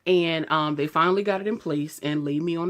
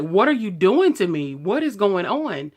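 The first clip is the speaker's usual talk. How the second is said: louder, higher imitated outcry; mock-alarmed raised voice, no real crying; retold distressed demand; 3 semitones higher, 6 dB louder than usual. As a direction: act out demanding answers from the operating table. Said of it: "I'm, like, screaming and crying".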